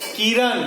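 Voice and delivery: किरण slowly, with the stress on र. Shown as a demonstration. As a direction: lean on र in किरण. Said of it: "र पर है".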